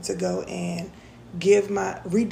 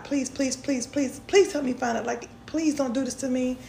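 higher, urgent repeated pleas; frantic retold begging, voice pitched up; begging God; 4 semitones higher than usual. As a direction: plead with God while tearing up cushions. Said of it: "begging God".

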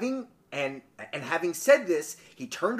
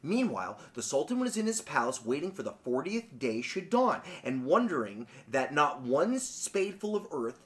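measured, quieter storybook reading; story narration; 4 semitones lower, 7 dB quieter than usual. A narrator's reading. Podcaster reading a folk tale to co-host, story narration. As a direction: read the tale with lilting emphasis.

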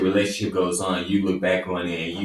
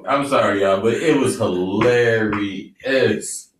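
laughing; 4 dB louder, slower than usual. Real, not acted. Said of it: "I'm trying to get my".

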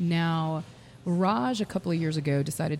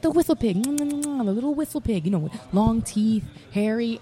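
high, loud mock French accent; hammed-up French stranger, pitched way up; 6 semitones higher, 5 dB louder than usual. French cyclist describing the Whistle Pig to Raj, excited mock French accent. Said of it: "he has a French accent".

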